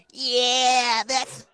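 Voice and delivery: high, very slow stoned voice; slow stoner drawl. Retold or imitated. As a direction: drag it out like a stoned guy. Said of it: "looks around and says".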